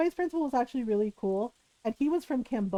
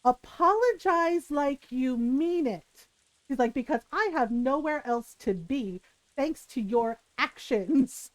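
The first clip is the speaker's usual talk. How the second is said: slow stern mother; slower than usual. Retold or imitated. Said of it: "And she goes".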